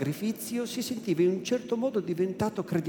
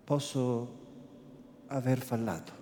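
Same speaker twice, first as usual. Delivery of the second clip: softened voice; 5 semitones lower, 7 dB quieter than usual. Acted. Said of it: "con voce raddolcita".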